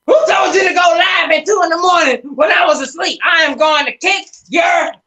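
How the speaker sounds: high, loud imitation of an irate caller; Sean. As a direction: shriek the scolding, dragging out the final threat. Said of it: "here's my imitation of Sean".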